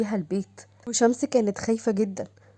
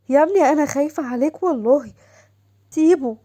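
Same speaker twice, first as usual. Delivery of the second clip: begging mother; 4 semitones higher, 5 dB louder than usual. Acted. Mother begs son to release.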